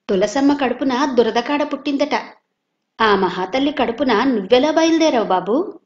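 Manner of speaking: mock the nephew with contempt; scornful jibe. Savitri taunting Madhu about his mother, scornfully. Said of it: "అంది ఈసడింపుగా".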